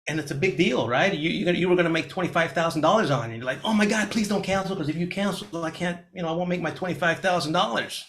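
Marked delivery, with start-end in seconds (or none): 3.6-8.0 panicked pleading, pitched higher; freaking out. Retold or imitated. New agent begging buyer not to cancel, panicked. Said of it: "You start freaking out".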